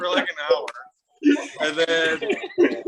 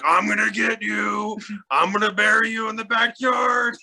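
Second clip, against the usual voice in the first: imitated yelling; 7 semitones higher than usual. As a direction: play a menacing uncle hollering after kids. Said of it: "yelling this stuff at us".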